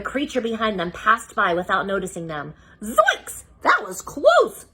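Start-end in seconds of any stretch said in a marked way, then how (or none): 2.8-4.7 high breathless relief; Shaggy panting. Acted. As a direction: gasp it out after the run. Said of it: "Shaggy panted".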